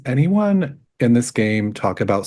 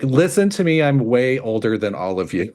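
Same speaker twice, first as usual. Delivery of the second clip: Farazan; 3 semitones higher than usual. Pretend. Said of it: "Maybe it's Farazan".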